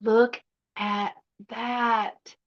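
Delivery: slow, soft, hushed admiration; tender awe. Real, not acted. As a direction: linger on each word in wonder. Admiring a perfect figurine.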